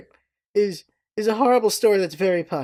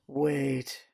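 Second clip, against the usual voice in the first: sudden realization; 6 semitones lower, 10 dB quieter than usual. Retold or imitated. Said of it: "he goes".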